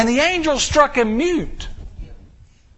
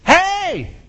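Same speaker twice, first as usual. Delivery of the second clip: Mary calling out; 9 semitones higher, much slower than usual. Acted. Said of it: "and goes".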